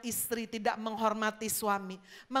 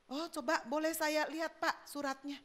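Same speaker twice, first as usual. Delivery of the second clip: stall lady; 2 semitones higher, 7 dB quieter than usual. Acted. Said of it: "Ibu tukang warung bilang".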